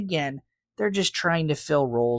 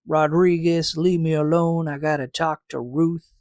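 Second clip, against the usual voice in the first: put-on Kirk's accent. Host plays Kirk waving off Rodriguez for Ruth, light mock accent. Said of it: "why Kirk has that accent".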